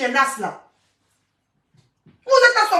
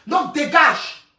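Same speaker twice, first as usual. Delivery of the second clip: slow dismissal; 2 semitones lower, much slower than usual. Real, not acted. Dismissing a commenter.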